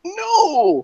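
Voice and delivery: sudden loud high no; shout. Retold or imitated. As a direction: yell it out in protest. Brother shouting denial, retold.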